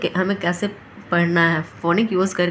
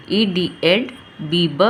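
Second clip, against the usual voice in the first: slow phonics blend; 2 semitones lower, slower than usual. Shown as a demonstration. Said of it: "break करके पढ़ेंगे".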